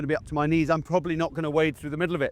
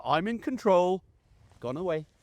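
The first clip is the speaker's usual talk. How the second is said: calm and softer, in control; calm command; 4 dB quieter than usual. Shown as a demonstration. Handler calmly sending his dog to hunt, soft and controlled. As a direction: settle the dog quietly. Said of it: "command is a much calmer".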